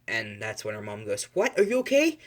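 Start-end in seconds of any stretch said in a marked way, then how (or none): 1.3-2.2 high, louder burst of worry; alarmed mother. Acted. Mother hearing her daughter met ninjas, alarmed. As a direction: blurt it out in mock motherly alarm.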